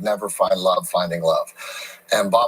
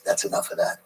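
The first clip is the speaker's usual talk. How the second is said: breathy, hushed Clint Eastwood rasp; Clint Eastwood impression; 4 dB quieter than usual. Clint Eastwood ending a take, in a soft whispered rasp. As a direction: say it like a laconic old cowboy director. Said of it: "That's a really good Clint Eastwood".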